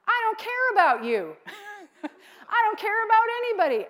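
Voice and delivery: high, loud, careless and full of herself; mock selfish inner voice, rushed at the end; self-absorbed voice. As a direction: toss it off like nobody else matters. Acting out self-centred thoughts.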